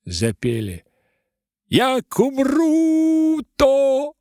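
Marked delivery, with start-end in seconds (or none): 1.7-4.1 very high, very slow, loud victory cry; a hammed-up cheer; triumphant shout. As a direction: draw it out in triumph. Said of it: "победно закричали".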